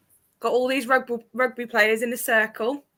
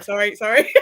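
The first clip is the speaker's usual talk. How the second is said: sorry through laughter; 4 dB louder than usual. Retold or imitated. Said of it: "And he was like".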